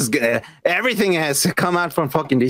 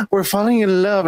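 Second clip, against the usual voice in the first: gasp, then a higher, sappy swoon; mock swooning lovers; 5 semitones higher than usual. Mocking the lovers in the film, a gasping sappy swoon. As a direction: gush it like a cheesy romance. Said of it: "they were like".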